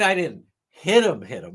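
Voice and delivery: mocking echo fading to a whisper; mocking imitation again. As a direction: repeat the lawyer's mockery. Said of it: "I mean".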